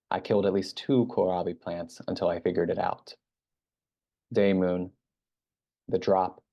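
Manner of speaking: measured literary recitation with pauses between sentences; haibun reading. Real, not acted. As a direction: read it out deliberately as a prose poem. Reads own haibun aloud.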